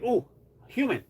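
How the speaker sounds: high, fast eager cat voice; lightly voiced clingy cat; voicing the cat. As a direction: gush like a needy pet. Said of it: "he's like".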